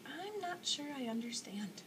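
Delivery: breathy, slow whisper; whispered doubt. Acted. Punchinello whispers his confusion to Eli. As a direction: barely dare to admit it.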